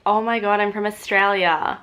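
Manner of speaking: her own Australian accent played up. Shown as a demonstration. Admitting where she is from in a played-up Australian accent. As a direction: lean into the Australian vowels. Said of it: "I sound so Australian".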